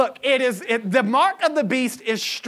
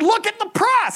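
high-pitched, urgent imitation; mock alarm; 12 semitones higher than usual. Cashier to customer about an unlucky total, mock alarm. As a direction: point out danger with hammed-up alarm.

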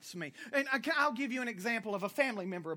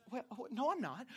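sheepish denial; 7 dB quieter than usual. Retold or imitated. Relative denies in retold call.

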